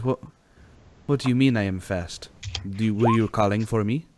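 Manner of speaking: lightly put-on formal accent; Giuseppe. Giuseppe questioning Chirpy, lightly voiced stern stranger. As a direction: question firmly, words set apart. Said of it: "and Giuseppe says".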